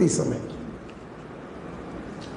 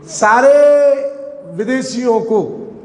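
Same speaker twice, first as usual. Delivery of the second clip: ordinary delivery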